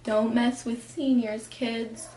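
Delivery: lightly acted, restrained warning; mock teacher warning. Teacher warning freshmen about seniors, understated mock warning. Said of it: "teachers being like".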